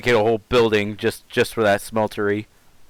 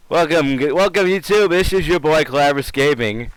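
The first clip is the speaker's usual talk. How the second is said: hyped streamer intro; 3 semitones higher than usual. Acted. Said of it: "trying to sound funny".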